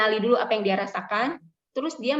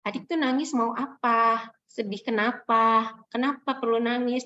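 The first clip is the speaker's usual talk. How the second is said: gentle questioning. Shown as a demonstration. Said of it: "kita tanya".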